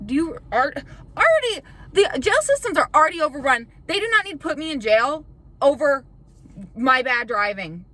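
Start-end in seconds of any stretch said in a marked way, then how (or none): 1.2-7.9 sudden high loud exasperation; loud indignant rant; exasperated outburst. Real, not acted. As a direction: blow up at the commenters, voice shooting up. Ranting about jail comments.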